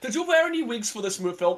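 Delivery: high, extremely fake Norwegian accent. Retelling a guy interviewing someone about a film, in a fake Norwegian accent. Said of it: "putting on the most fake Norwegian accent ever".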